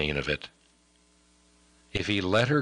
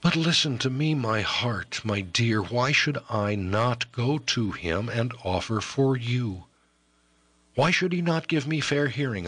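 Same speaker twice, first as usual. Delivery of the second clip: put-on a lightly higher, ardent young man; eager young lover; 5 semitones higher than usual. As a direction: argue his case with rising hope. Voices Ellis pleading his case.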